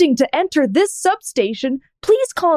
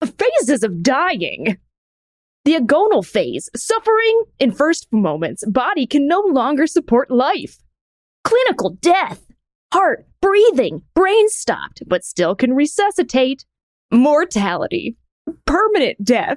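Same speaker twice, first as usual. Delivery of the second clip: goofy, clown-like voice reading aloud. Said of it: "so that you can experience Comic Sans as it is internalized".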